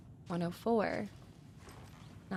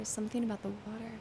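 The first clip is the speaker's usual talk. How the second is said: softer, fast muttered repeat; quiet fast repeat; 6 dB quieter, much faster than usual. Real, not acted. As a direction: mumble it back to yourself quickly. Repeats clue under breath.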